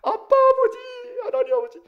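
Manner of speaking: very high, hammed-up child's cry; childlike calling. Preacher showing believers calling God, childlike cry. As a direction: call out like a child running to Dad. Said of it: "우리도 그렇게 해야 돼".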